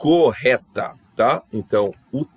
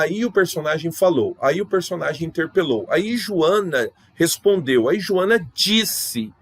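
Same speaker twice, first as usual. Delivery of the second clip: higher-pitched storyteller lead-in, slowing toward the end; example narration; 6 semitones higher, slower than usual. Shown as a demonstration. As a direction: announce that a character is about to speak. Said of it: "é aquele verbo que provoca uma próxima fala".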